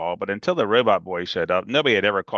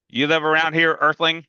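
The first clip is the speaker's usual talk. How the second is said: higher, louder playful echo; echoing Freak's word; 6 semitones higher, 4 dB louder than usual. Acted. Big kid teasing Freak with his word, playfully. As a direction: toss his own word back at him. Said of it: "I go".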